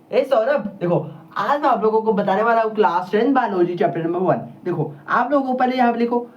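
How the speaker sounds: imitating a teacher projecting to the whole class; loud classroom teacher. Teacher imitating a school teacher calling out to a class, half-loud. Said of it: "वो पता कितना तेज बोलेगा".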